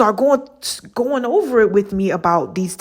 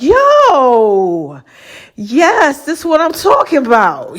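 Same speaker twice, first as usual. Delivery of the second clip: excited shout; 4 semitones higher, slower than usual. Retold or imitated. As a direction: shout it like you finally found it. Excited retelling of her reaction.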